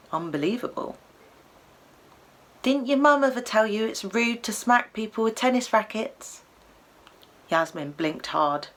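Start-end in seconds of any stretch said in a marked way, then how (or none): 2.6-6.4 Cockney llama. Acted. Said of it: "in a broad Cockney accent".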